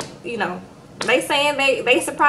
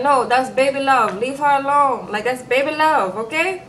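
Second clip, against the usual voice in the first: put-on lightly done Nigerian accent, defensive; imitating a Nigerian accent, brushing the friends off; a hint of a Nigerian accent, insisting. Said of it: "my Nigerian accent".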